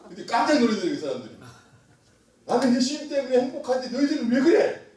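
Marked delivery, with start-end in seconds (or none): 2.5-4.9 high, animated quoted testimony; acted challenge. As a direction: challenge the gloomy crowd. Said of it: "그래서 이분이 그랬대".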